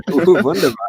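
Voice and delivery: mock German accent; playful fake German exclamation. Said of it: "Use that as the German pro".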